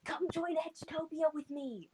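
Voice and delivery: high-pitched eager invitation; in-character call. Acted. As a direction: call out up high, playing along. Player calling to character in role.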